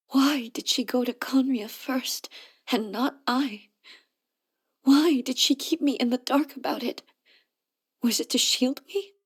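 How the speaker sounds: questions that break upward in grief; anguished questioning. Acted. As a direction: demand answers from the past, pained. Grieving over her friend's death.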